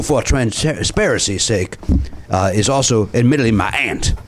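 put-on Cajun accent. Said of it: "you're still doing the accent".

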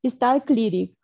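talking through a yawn. Real, not acted. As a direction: speak mid-yawn, jaw stretched open. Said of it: "Sorry for ya-, yawning".

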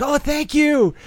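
high, overly sweet thank-you; snooty waiter. Retold or imitated. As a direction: gush it like a fawning server. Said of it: "they all have to be like".

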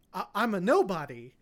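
put-on a light Australian accent on the quote; lightly imitated Australian accent. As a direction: slip into a mild Australian accent. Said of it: "in his Australian accent".

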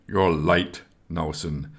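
a mild, understated growl; gruff and curt, a hint of a stern arms master. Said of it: "Esgar growled".

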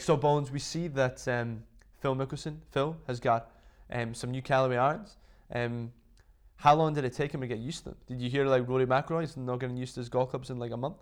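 American interview voice; American accent. Acted. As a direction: mimic an American reporter's questioning. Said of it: "that's my American accent".

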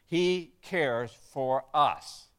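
drawn out slowly, stress on he; slow emphatic restatement. Shown as a demonstration. Pastor to congregation, driving it home slowly and emphatically. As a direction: lean on each word, savoring it.

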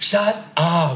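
high, loud dramatic exclamation; playful disbelief. Shown as a demonstration. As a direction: tease a close friend in mock shock. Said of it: "intonation หรือว่าน้ำเสียงแบบนี้". (อุทานเสียงสูงแบบหยอกเพื่อนสนิท)

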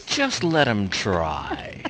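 slow, menacing witchy threat; a hint of the Wicked Witch of the West, drawn out slowly; wicked witch menace. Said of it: "shades of Margaret Hamilton in there".

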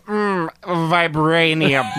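put-on slow, pompous British accent. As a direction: stretch it out like a stuffy British explorer. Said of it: "some British guy go".

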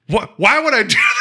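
high and loud outraged protest; hammed-up innocence, rising to a yell; mock indignant shout. Podcaster imitating the accused hero, hammed-up shouted protest. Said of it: "He's like".

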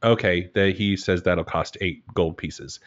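matter-of-fact, uninvested game master delivery; flat. Shown as a demonstration. Game master voicing a wine merchant without character, flatly. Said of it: "very flatly voice".

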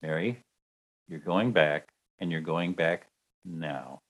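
calm, low and firm, quiet but certain; kind but firm. Retold or imitated. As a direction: gently lay down the law like a saint. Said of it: "very kindly, but very firmly says".

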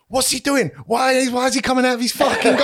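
put-on high, laughing Manchester accent for the wife; Manc accent. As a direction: pitch it up into a mock Manc outburst. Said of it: "I did a Manc accent".

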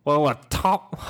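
halting, badly faked British accent; aborted stab at a British accent; British accent attempt. Shown as a demonstration. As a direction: try a British accent and give up. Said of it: "How do you do a British accent?".

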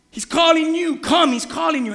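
loud, high beckoning; calling out. Retold or imitated. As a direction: call him over eagerly. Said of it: "they say".

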